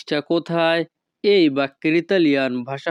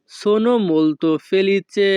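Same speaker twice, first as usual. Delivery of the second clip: very slow, each sound drawn out; slow demo; 3 semitones higher, much slower than usual. Shown as a demonstration. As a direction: stretch it out for the learners. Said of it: "Italian ভাষা".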